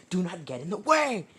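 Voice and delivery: acted mid-fight yell; angry yell. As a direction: shout the warning, rising high at the end.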